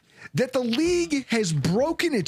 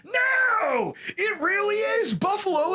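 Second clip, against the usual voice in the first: emphatic shout; 10 semitones higher, slower than usual. Real, not acted. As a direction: cut them off with a real shout. Insists against doubting fans.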